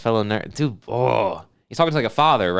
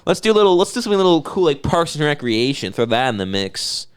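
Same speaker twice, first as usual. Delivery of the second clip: mocking. Mocking friend's choice.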